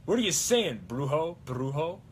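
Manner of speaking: lightly voiced hero, puzzled; Ash. Quoting Ash in the Brujo episodes, a hint of impression. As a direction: start high, then question the name. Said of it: "Brujo episodes were actually a pretty good source of quotes".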